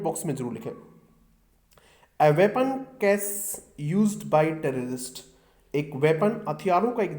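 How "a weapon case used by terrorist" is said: dictation reading. Shown as a demonstration. Reading the example sentence slowly.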